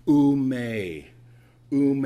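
loud, drawn-out "Ume"; emphatic. Shown as a demonstration. Preacher demonstrating the Greek negative, loud and emphatic. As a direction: call out "Ume" forcefully and hold it. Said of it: "that's the emphasis that he was".

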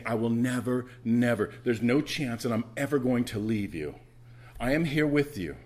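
loud insistence on "never" and "no chance"; emphatic. Retold or imitated. Preacher voicing God's promise to stay, loudly emphatic. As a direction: drive home each "never" with force. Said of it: "that's the emphasis that he was".

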